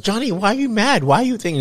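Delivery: high, loud, overacted pleading; hammed-up, high-pitched imitation of fake concern; mock bad actress. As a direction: play the worst actor trying to sound real. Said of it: "like the worst actor trying to be real".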